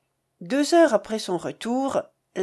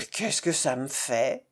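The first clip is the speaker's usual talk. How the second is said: low, quieter shrug of a line; indifférence; 8 semitones lower, 4 dB quieter than usual. A narrator's reading. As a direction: brush it off, low and offhand. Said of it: "dit Rosanette en haussant les épaules". (indifférente, d'une voix plus basse)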